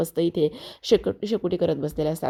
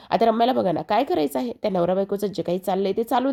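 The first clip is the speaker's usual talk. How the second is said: narrator's raised, scolding aside about Ramya; indignant aside; 3 semitones higher than usual. Real, not acted. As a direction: huff at the viewers, pitch climbing. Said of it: "अशी वाटतं एक मुस्कटीत द्यावा".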